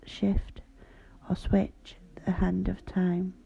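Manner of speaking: slow whispered poem reading. Acted. Reads her poem aloud.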